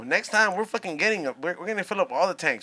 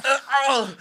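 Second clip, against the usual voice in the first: anime grunt; 5 semitones higher than usual. Retold or imitated. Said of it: "like the Vegeta fools".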